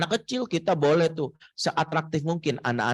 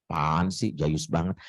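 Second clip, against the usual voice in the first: scornful student; 9 semitones lower than usual. Retold or imitated. College students mocking the speaker.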